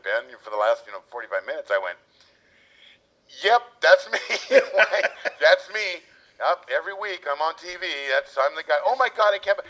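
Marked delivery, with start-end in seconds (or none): 3.5-9.6 laughing mock excitement.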